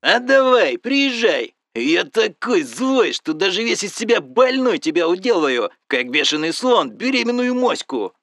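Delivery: loud, high challenge, full of spite; injured friend daring Ros to come over, shouting angrily; furious dare. Acted. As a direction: bring it on, scream the threat. Friend dares him to come.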